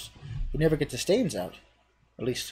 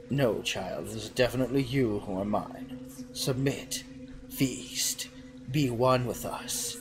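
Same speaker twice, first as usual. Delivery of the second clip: seductive cheese voice; 2 semitones lower, 5 dB quieter, slower than usual. Acted. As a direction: lure him in softly like a temptress.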